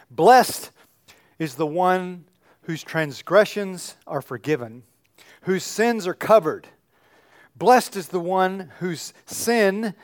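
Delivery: scripture read aloud, a lightly voiced worship leader. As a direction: read the psalm to the congregation, measured. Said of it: "this would really be Jeanette".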